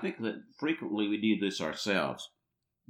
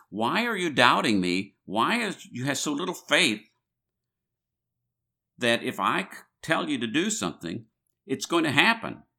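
exasperated Jesus; 3 semitones higher than usual. Retold or imitated. Preacher voicing Jesus' rebuke.

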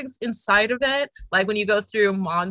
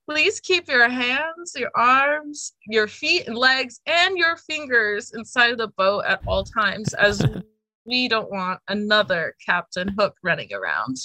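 ride spiel joke. Retold or imitated. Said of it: "my favorite joke was".

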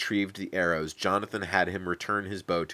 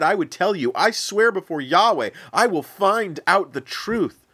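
higher and louder, swearing loyalty with passion; fervent Jonathan; 7 semitones higher, 3 dB louder than usual. Acted. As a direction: vow it before God, earnestly.

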